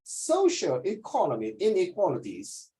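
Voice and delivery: "Socioeconomic inequalities" said slowly, every syllable clear; careful British pronunciation. Shown as a demonstration. Teacher modelling the phrase slowly for the student. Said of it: "You must speak like a British".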